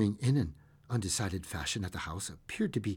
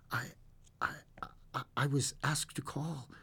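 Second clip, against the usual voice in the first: hesitant; 3 semitones higher, 9 dB quieter than usual. A narrator's reading. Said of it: "he said at last".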